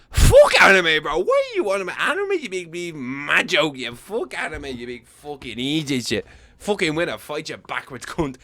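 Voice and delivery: high, loud put-on brawler voice that fades; ranting mock Conor; Conor McGregor. Conor mocking Izzy at the table, brash put-on rant. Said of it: "and Conor be like".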